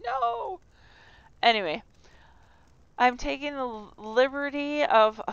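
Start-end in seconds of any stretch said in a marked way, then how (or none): 0.0-0.6 much higher mock German shout; hammed-up "No!" much higher; imitated yell. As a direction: yell it like an outraged stranger. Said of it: "I would have Germans yelling at me".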